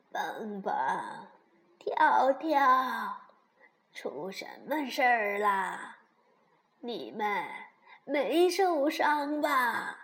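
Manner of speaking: 慢慢拖长音地喊孩子; 轻度扮演着急询问的婆婆; 熊婆婆，关切询问. Acted. (关切的婆婆腔)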